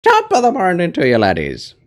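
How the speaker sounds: high, loud Irish greeting; Jacksepticeye impression. Viewer asks for a Jacksepticeye, loud high Irish greeting. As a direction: belt it out like Jacksepticeye. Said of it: "Do a Jacksepticeye".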